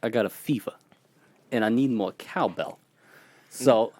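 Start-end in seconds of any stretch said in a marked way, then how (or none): 0.0-2.8 lightly voiced Walken with odd pauses; halting, offbeat Walken phrasing; Christopher Walken impression. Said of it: "my trigger word for Christopher Walken is".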